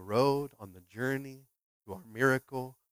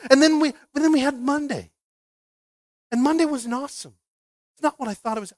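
much higher, louder wounded complaint; complaining to God; 10 semitones higher, 6 dB louder than usual. Retold or imitated. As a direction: plead like a let-down believer. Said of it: "I've had that conversation with God".

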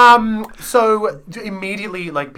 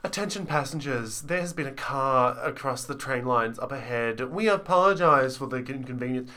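train announcement; 5 dB quieter than usual. Retold or imitated. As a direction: read it like a calm train announcement. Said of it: "she was talking about".

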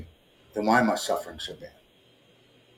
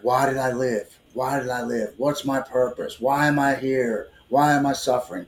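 desperate yelling; 3 semitones higher than usual. Retold or imitated. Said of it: "completely losing my shit".

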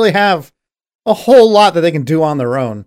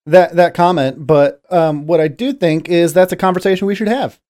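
politician voice. Pretend. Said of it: "I can be a politician".

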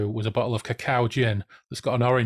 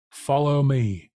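slow, drawn-out command; grand acted order, stretched out; 3 semitones higher, 3 dB louder, slower than usual. A narrator's reading. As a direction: summon the crowd like a prophet. Clown commands the crowd.

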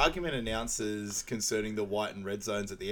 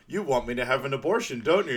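imitating woman; 2 semitones higher, 5 dB louder than usual. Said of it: "you hear the woman go".

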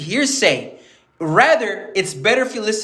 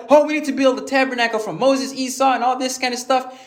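higher-pitched, mildly flustered imitation; mock freaking out; 5 semitones higher than usual. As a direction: act out excited disciples babbling. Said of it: "they're freaking out".

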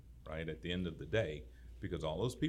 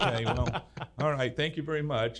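embarrassed laughing thanks; 7 semitones higher, 8 dB louder than usual. Retold or imitated. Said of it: "And I was like".

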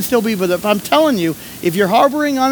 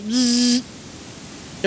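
buzzing clock; 3 semitones higher, 6 dB quieter than usual. Shown as a demonstration. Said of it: "Ever seen those clocks?".

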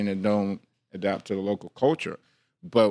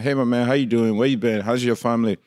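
Liberian greeting; 3 dB louder than usual. Shown as a demonstration. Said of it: "when I'm with the Liberian people".

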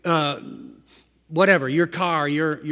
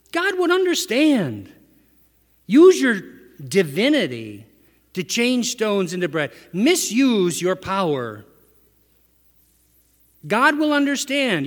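coaxing tempter. Retold or imitated. Voicing the devil tempting Jesus.

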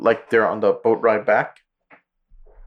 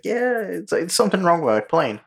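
mock pilot voice; 8 semitones higher than usual. Pilot voiced in retold movie.

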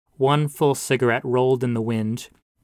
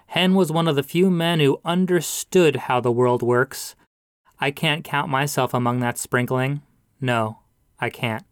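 a hint of a raised, solemn preacher; pastor's eulogy voice; 2 semitones higher than usual. Pastor praises the dead man to mourners, lightly preacherly. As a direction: pitch it up like a man behind a pulpit.

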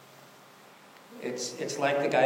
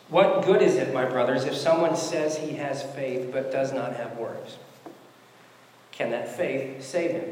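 raised, measured scripture reading, slowing at the end. Acted. Pastor reading James to the congregation, firm scripture reading.

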